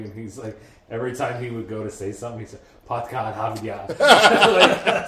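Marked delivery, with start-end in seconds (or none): 2.9-3.9 put-on Boston accent. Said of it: "to get the accent".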